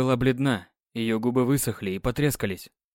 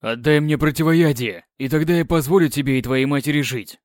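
loud, commanding threat; booming warrior king; 4 dB louder than usual. Acted. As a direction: thunder the threat at the prisoner. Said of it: "гремел голос короля".

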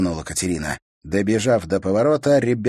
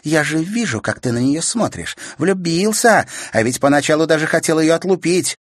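higher, louder knowing jab; teasing; 9 semitones higher, 6 dB louder than usual. A narrator's reading. Sister teasing brother about falling in love. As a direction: tease him about his crush.

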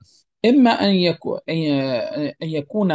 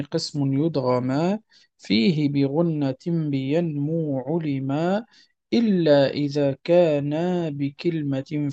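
slow, measured singsong verse; verse recitation; slower than usual. Acted. Teacher reads the rules poem to students, measured chanting recitation. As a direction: recite the poem with drawn-out vowels.

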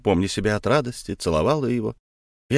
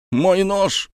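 high, loud desperate shout; shout for the knife; 8 semitones higher, 3 dB louder than usual. A narrator's reading. Jealous husband calling for his knife, loud shout. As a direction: cry out for the knife.

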